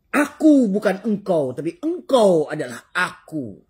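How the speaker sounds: high, loud, slow glass cup voice; voicing the glass. Preacher has the glass cup speak to the glass, high. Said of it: "Kata gelas kaca".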